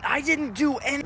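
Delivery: lightly voiced defensive kid; a hint of a whiny child denying blame; daughter denying. Dad imitating his daughter denying it, lightly whiny. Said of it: "the only thing I hear from her is".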